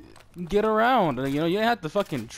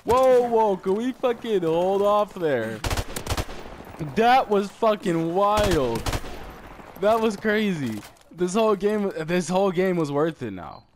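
higher and louder, slow and amazed; real amazed excitement; 5 semitones higher, 5 dB louder, slower than usual. Real, not acted. Gamer marveling at his quad kill, loud amazed excitement. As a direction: savour the wild play out loud.

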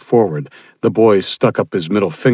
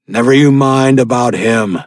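mild defiant yell; 5 semitones higher, 6 dB louder than usual. Acted. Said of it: "he yelled at them".

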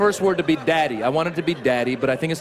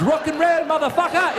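high-pitched mock English rocker; rock-star baby with an English accent; hammed-up English accent, pitched high; 11 semitones higher than usual. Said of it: "He has an English accent".

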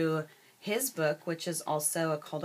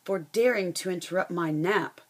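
a touch of a growling lion, a bit louder; mock-menacing lion threat, lightly voiced; 4 dB louder than usual. Teacher voicing the angry lion for her class, mild growl. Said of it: "the lion growled".

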